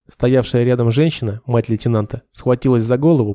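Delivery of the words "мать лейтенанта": usual speaking voice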